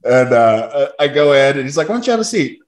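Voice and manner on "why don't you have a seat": mock manager. Manager voiced.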